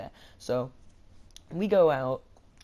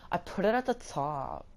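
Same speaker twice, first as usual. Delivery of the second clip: slightly raised mock-earnest voice of the girl; dead-serious insistence; 4 semitones higher than usual. Counter girl answering a customer's complaint, dead serious. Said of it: "she was one hundred percent serious".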